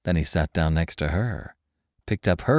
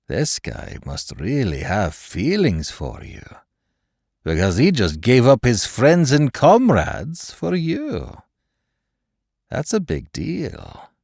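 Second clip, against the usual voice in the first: acid sarcasm; 5 semitones higher, slower than usual. A narrator's reading. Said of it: "acid dripping through each word".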